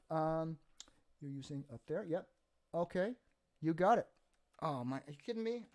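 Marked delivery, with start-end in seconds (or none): 5.0-5.7 excited. Real, not acted. Thrilled by favourite subject question.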